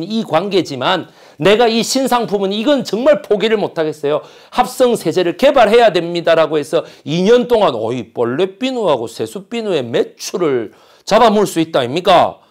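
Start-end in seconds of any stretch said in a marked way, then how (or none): 4.5-12.4 lightly voiced Gyeongsang dialect executive; a hint of Gyeongsang dialect in the argument. Executives debating the new detergent, in mild Gyeongsang dialect. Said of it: "내가 왜 경상도 사투리 하냐면".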